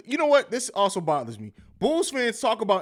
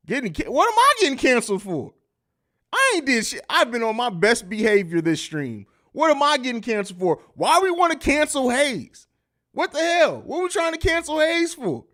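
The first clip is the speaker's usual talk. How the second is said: raised, incredulous protest; indignant disbelief; 6 semitones higher than usual. Real, not acted. Streamer protesting to chat, high incredulous protest. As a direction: act shocked anyone would cancel you. Mock outrage over being canceled.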